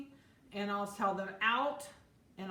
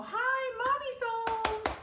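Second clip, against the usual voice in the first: put-on much higher, louder, slow sing-song baby talk to a puppy; squeaky baby tone; 6 dB louder, much slower than usual. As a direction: gush at the puppy like a doting owner. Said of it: "that high, squeaky baby tone".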